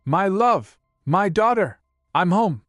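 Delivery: high, loving call home; warm calling out. A narrator's reading. Father arriving home to wife and daughter, calling out warmly. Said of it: "Father calls out warmly".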